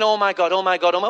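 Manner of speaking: low mock-dread muttering. Passenger praying in turbulence, low mock dread. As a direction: repeat it low, as if to yourself.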